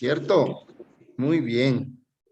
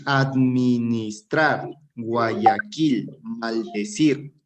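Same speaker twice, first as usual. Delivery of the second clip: administrar, Guayaquil, maldecir said slowly, each leaning on its last syllable; stress on final syllables; 3 semitones lower, much slower than usual. Shown as a demonstration. Teacher showing words without tilde, administrar, Guayaquil, maldecir slowly stressed on last syllables. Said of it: "son palabras agudas sin tilde".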